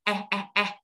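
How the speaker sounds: "A, a, a" as short flat "æ" sounds; each "a" halfway between A and E; A-E blended vowel. Shown as a demonstration. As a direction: spread the mouth corners on each short "a". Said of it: "khóe miệng ra giống như âm E".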